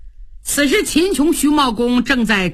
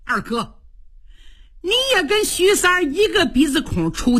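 wounded anger; 5 semitones higher than usual. Acted. Cheng breaks with sworn brother.

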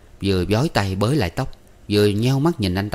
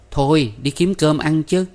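higher call, drawn out; brightened up; 8 semitones higher, 4 dB louder than usual. A narrator's reading. Ba beckons the guest out to eat, cheerful. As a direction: call out cheerfully, stretching the words. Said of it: "bỗng tươi nét mặt lại".

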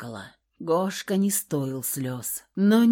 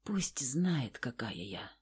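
whispered, much softer; bitter whisper; 6 semitones lower, 12 dB quieter, slower than usual. A narrator's reading. Woman confessing to Kolya in a whisper. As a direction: breathe it out in shame.

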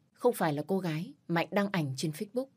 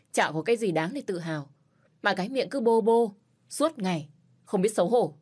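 angry scolding. Acted. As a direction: scold him with open scorn. Narrator scolds Mạnh in anger.

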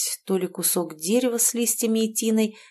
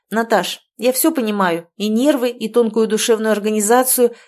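a fed-up yell, louder throughout; shouting at her friend; 2 semitones higher, 5 dB louder than usual. Acted. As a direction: snap at the whiny friend, run out of patience. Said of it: "заорала на неё Юля".

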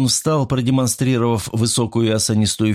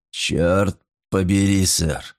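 put-on slow, drunken slur; slurred; much slower than usual. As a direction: slur the words, tongue thick. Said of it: "заплетающимся языком проговорил".

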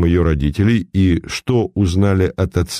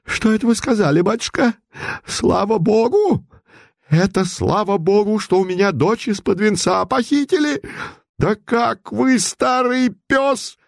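much higher furious tirade, slowing at the end; 12 semitones higher than usual. Acted. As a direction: lash out like an enraged tigress. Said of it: "как разъярённая тигрица". (разъярённая купчиха, намного выше)

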